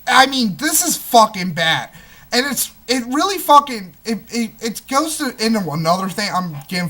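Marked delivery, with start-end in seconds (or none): 0.0-1.9 mock screaming. Shown as a demonstration. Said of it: "just screaming".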